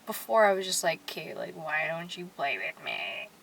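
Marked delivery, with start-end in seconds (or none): 1.0-3.3 lower, slow pet voice, swelling louder at the end; lightly voiced cat Lola pleading. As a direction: voice the cat's complaint. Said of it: "That's my Lola voice".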